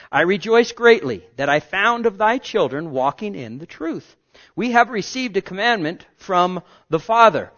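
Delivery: loud pulpit reading; forceful scripture reading; 1 preached scripture. Real, not acted. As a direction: read it out like a proclamation. Scripture read at full force.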